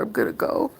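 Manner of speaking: whispered, hushed and low; real whisper. Real, not acted. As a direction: whisper it so he can't hear. Hushed aside, afraid of him.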